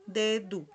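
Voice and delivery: dedo as "DE-du", set apart; final o as u. Shown as a demonstration. Teacher proves the U rule, dedo said "DE-du". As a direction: close dedo on a clear u. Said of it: "se pronuncia como si fuera una U".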